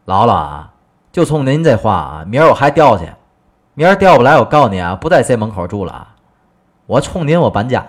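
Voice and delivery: husband blowing up at granny's advice; stung and furious. Acted. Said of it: "急了".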